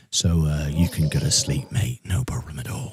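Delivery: very low, very soft, deep, hushed murmur. Speaking to Zach tonight, in a very quiet and soft voice. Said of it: "I'm talking very quietly and softly".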